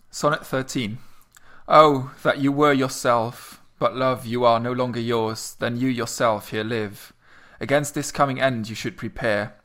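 measured recital of a sonnet, lingering on the opening lines; poem reading. Acted. Podcast co-host reciting Sonnet thirteen for listeners, measured poem reading. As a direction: read it like verse for an audience.

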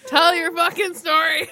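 half-crying laughter, shouted; laughing shout. Real, not acted. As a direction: yell it through helpless laughter. Laughing exasperated demand.

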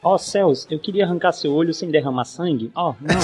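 fussy polite robot, lightly voiced; Triple Zero impression. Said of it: "O jeito dele".

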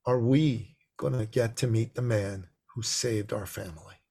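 softly retold child's question; very quiet boy. Boy asking his mommy about their rescuer, quietly. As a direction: hush it, in awe of the visitor. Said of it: "my boy became very quiet".

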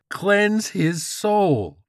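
very slow, very high zealot yell; frenzied command. Acted. George's frenzy peaks, drawn-out screamed command. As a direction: stretch each word into a holy shout. Repeat builds to holy frenzy.

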